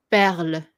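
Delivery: perle with the last E barely sounded; French perle, ending lightly after the L; unstressed final E. Shown as a demonstration. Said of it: "don't put the emphasis on the E".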